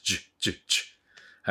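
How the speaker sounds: "ジュッ" as short sizzling bursts; sizzling sound. Shown as a demonstration. Teacher showing students the J sound, sizzling bursts. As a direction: say "ジュッ" like sauce hitting a hot plate. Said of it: "こんな感じの音です".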